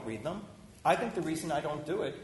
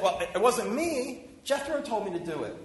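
mock defensive excuse in a higher voice; 7 semitones higher, 4 dB louder than usual. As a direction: whine it like someone ducking responsibility. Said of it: "instead of saying".

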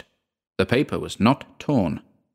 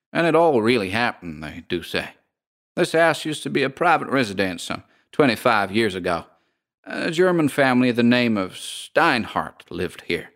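lightly voiced gossiping American landlady; drawling landlady; 3 semitones higher than usual. Landlady tells the house history.

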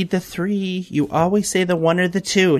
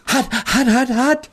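mouth full of hot food; 9 semitones higher, slower than usual. Pretend. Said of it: "It's not even off the pan yet".

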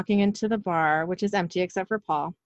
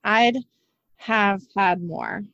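slow, word-by-word retake; deliberate, drawn-out enunciation; careful retake; much slower than usual. Shown as a demonstration. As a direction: spell out the tricky line slowly, pausing after the first word. Retrying a tongue-tripping line, word by word.

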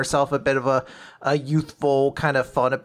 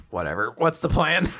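grumpy dismissive. Retold or imitated. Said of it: "Nico's just like".

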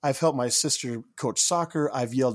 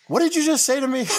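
much higher and louder, furious retort; angry disbelief; 11 semitones higher, 5 dB louder than usual. Retold or imitated. Snapping back at the hotel desk clerk, outraged and loud. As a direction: hit it like you can't believe your ears. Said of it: "I kinda lost it at that point".

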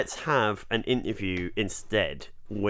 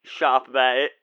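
a touch of a gruff bloke hushing the lads; lightly voiced Tony calling order; mock Tony character; 3 semitones higher, 5 dB louder than usual. Tony voice, new accent joke.

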